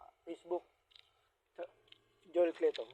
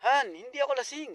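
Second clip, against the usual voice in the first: put-on drunk husband denying; 6 semitones higher, 8 dB louder than usual. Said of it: "Sabi niya".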